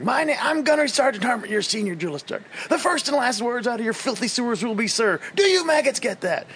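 high barking drill sergeant. Retold or imitated. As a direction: scream it like a drill instructor. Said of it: "and he's like".

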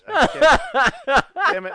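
loud high frustrated outburst. Real, not acted. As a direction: blurt it out in frustration. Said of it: "I'm mad that I can't".

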